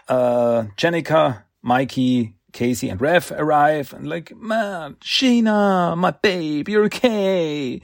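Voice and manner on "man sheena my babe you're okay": higher, half-hammed happy cry of relief; relieved greeting. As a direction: call out to her, glad she's alive. Friend relieved to find her safe.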